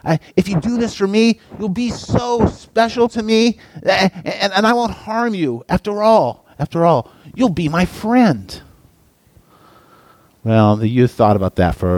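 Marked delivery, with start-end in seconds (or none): 0.0-8.6 high, sweet persuasive snake voice; a seductive serpent; coaxing snake. A narrator's reading. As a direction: lure him in with honeyed promises.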